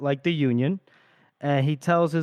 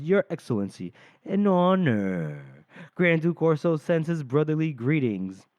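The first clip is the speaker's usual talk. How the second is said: lightly mocking courtesy; Ganmark. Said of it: "he mocks, uh, Salier a little bit".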